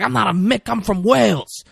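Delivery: high-pitched mock protest; imitating an affronted retort; indignant protest. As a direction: object strongly, voice jumping up.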